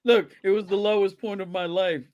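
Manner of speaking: imitating a hollow apology; mock apology. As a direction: fake remorseful excuse. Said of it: "That's, that's always the line".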